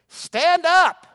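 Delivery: high, loud rallying cry; preaching shout. Acted. Pastor urging weak believers, loud preached shout. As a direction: shout stand up at them.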